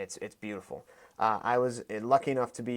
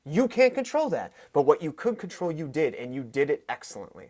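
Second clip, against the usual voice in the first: high, loud pep-talk insistence; emphatic reassurance; 4 semitones higher, 4 dB louder than usual. Retold or imitated. Coach telling a beaten fighter he has no shame, emphatic reassurance. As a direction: press the point home to console a fighter.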